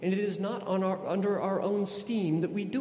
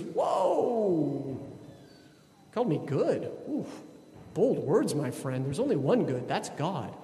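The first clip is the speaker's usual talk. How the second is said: lightly voiced Jesus, amused at the flattery; a playful whoa then gentle correction; Jesus, mock amazed; slower than usual. Jesus teasing the rich young man, lightly amused. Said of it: "And Jesus goes".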